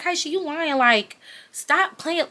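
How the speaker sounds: high, drawn-out disbelieving mom; mock maternal disbelief. Mom refusing to believe her daughter, slow high-pitched disbelief. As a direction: imitate a mother who won't buy it.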